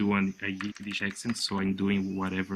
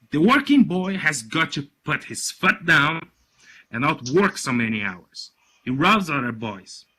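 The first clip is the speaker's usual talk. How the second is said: louder, emphatic pronouncement; father holding forth; 3 semitones higher, 5 dB louder than usual. Acted. Father lecturing his listening workers, loud and emphatic. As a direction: boss laying down his opinion, firm and loud.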